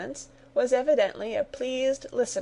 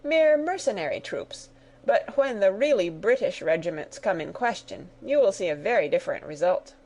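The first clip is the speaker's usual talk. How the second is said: vexed. Acted. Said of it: "excessively vexed".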